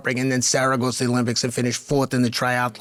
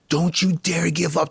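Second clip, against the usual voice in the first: higher-pitched, forceful trackside urging; urgent coach command; 5 semitones higher than usual. Retold or imitated. Coach to a runner with yards left, urgent. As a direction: urge the runner on.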